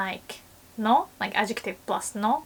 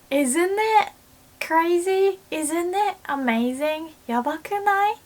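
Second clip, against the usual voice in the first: much higher rising asks; excited question; 8 semitones higher than usual. Shown as a demonstration. Asking a friend to agree, much higher and eager. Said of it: "to mean".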